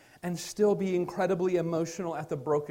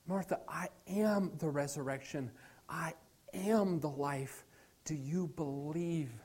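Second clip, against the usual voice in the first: softer and slow, a gentle Jesus asking; quiet tender Jesus; 2 semitones lower, 7 dB quieter, slower than usual. Acted. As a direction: let it drop soft and slow, tender. Jesus quoted speaking to Martha.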